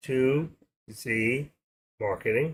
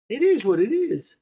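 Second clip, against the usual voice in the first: mock wise man; 10 semitones higher, 4 dB louder than usual. To his stream viewers, quoting a wise man in a high, hammed-up voice. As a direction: ham up the old saying as if quoting a guru. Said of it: "says the man".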